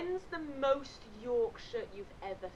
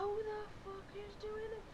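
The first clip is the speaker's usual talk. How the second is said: high, strained, softer mock fury; livid; 11 semitones higher, 5 dB quieter than usual. Head out of the tent, livid. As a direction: seethe it in a high pitch. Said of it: "obviously livid".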